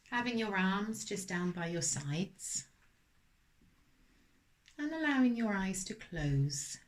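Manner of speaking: gentle, unhurried meditation guidance; guided meditation. Acted. Mindfulness teacher settling listeners for a body scan, gentle guidance. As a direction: ease them into stillness with spaced-out phrases.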